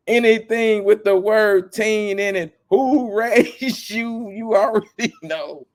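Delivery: high, slow, laughing outrage; half-laughing at the absurdity; outraged disbelief. Retold or imitated. Ranting at a celebrity's answer, high laughing outrage. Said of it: "I'm like".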